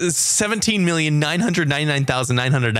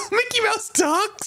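falsetto cartoon mouse question, much higher; Mickey voice; slower than usual. Host mocks Mickey with a high falsetto mouse voice. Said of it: "that's his actual voice".

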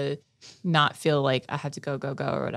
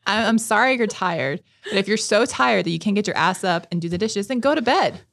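raised, louder scolding, building to the order; exasperated retelling; 4 semitones higher, 4 dB louder than usual. Retold or imitated. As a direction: re-enact dismissing a tired partner. Retold quarrel over dishes.

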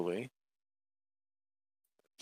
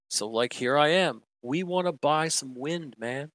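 a higher, easygoing bro voice; chill bro; 5 semitones higher, 3 dB louder than usual. Acted. Joe explaining he is here, lightly voiced bro. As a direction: ramble it like a laid-back bro.

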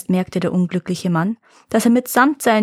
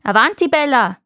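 higher, urging command; commanding call; 4 semitones higher, 4 dB louder than usual. A narrator's reading. Farmer orders his favourite cow onward, commanding. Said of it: "befahl der Bauer".

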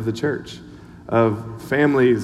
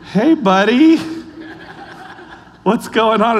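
put-on gentle hello to a child; 7 semitones higher, 3 dB louder, slower than usual. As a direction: coo it to a small boy who just hugged you. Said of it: "I was like".

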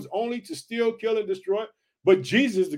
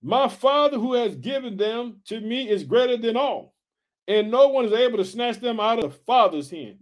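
scripture reading; 3 semitones higher than usual. Acted. Preacher reading Jesus' promise to the church family, emphatic scripture reading. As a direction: draw out each promise as you read.

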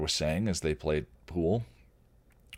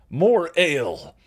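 higher, louder, slow demand for ale; troll bellow; 10 semitones higher, 8 dB louder, slower than usual. Acted. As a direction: roar it at the bar.

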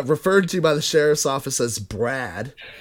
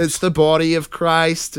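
mock priest; 3 semitones higher than usual. Mock priest intoning communion.

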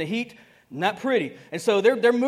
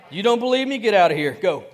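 louder, commanding; firm Jesus; 5 dB louder than usual. Acted. Jesus ordering the mourners out, loud and firm. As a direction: throw them out with force.

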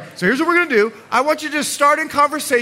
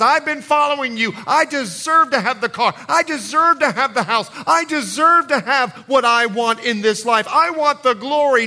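higher, insistent mock entitlement; entitled demanding; 5 semitones higher, 4 dB louder than usual. Man claiming rewards for following Jesus, entitled demanding. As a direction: demand it as your due, line after line. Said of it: "There is no entitlement in this man's voice".

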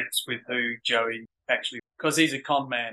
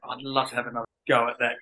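quick aside; faster than usual. Retold or imitated. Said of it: "I certainly went".

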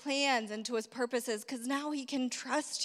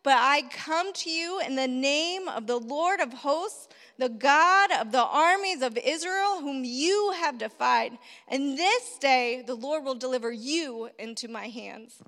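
defiant yell; 3 dB louder than usual. Retold or imitated. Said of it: "he yells to the Philistine".

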